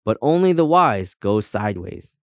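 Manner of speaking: lifted, declaimed motto with grand pauses; proud. A narrator's reading. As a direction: recite your own saying grandly. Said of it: "said Compass proudly".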